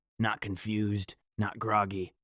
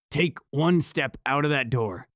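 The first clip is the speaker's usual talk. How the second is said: a cold threat, higher and louder; calm and certain; 6 semitones higher, 6 dB louder than usual. Acted. Possessed girlfriend threatening him, calm and certain, higher and louder. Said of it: "calm and certain".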